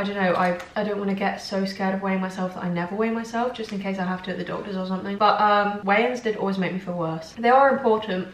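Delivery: chewing while talking; talking between bites of crisps; mouth full. Real, not acted. Seen 1: Holds crisp at lips, bites and chews while talking.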